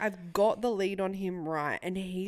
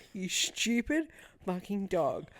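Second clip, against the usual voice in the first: frustrated mutter; slower than usual. Retold or imitated. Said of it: "I was like".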